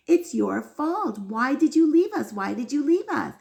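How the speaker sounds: insistent, rising protest to God; imitating an indignant plea; retold yelling reproach. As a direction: demand answers, stressing each accusation. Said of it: "she keeps yelling and yelling".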